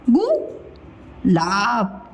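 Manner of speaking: गुलाब split by a long pause; syllable by syllable. Shown as a demonstration. Teacher spelling it for children, syllable by syllable. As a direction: sound out गुलाब slowly, gu, pause, laab.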